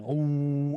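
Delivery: long drawn-out "ooh"; sustained, humming "ooh"; imitated pulsation. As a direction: voice a wave of vibration washing over you. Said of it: "that fucking sort of vibrating pulsation".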